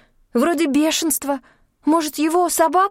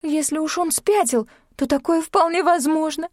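tearful babbling; 8 semitones higher than usual. A narrator's reading. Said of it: "пролепетала".

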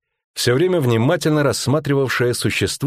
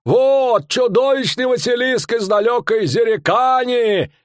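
a pitched-up showman bellowing his tale; fairground barker. Acted. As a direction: sell the monster to the crowd. Showman barker voiced in story.

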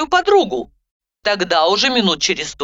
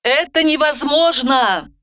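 sighing; 7 semitones higher, slower than usual. A narrator's reading. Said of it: "вздохнула я".

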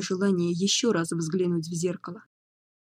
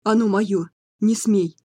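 angry shout; 5 dB louder, slower than usual. Acted. Madman guarding the mirror.

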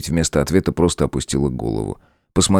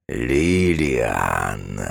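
злобный голос демона; 5 semitones lower, 3 dB quieter than usual. A narrator's reading. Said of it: "злобный голос демона".

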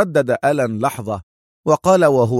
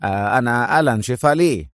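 mildly nervous greeting; uneasy, faintly trembling. Acted. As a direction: greet with a touch of fear. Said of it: "سأله في صوت مرتعد".

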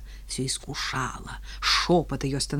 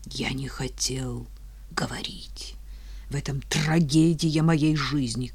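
tragic sepulchral voice; 3 semitones lower than usual. Acted. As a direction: mourn it like a ghost. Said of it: "трагическим загробным голосом".

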